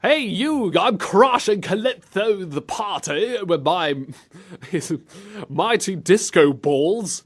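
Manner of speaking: high, slow mock British accent; cartoonish British impression. Host copying co-host's British Joey, slow hammed-up accent. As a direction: drag out a bad British cartoon voice. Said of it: "I'm gonna go British".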